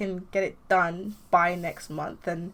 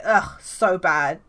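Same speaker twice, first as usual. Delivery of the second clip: slow, loud drawn-out ugh; disgusted; 8 dB louder, much slower than usual. Acted. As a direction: drag it out with contempt. Lars mocks Sam's leadership.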